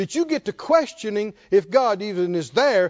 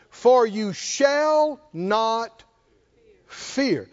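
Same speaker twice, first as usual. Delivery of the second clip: very slow, drawn out scripture; much slower than usual. Acted. Scripture slowed.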